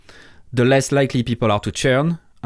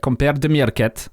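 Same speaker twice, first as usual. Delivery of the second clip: put-on Russian accent; 4 semitones higher than usual. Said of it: "with a Russian accent".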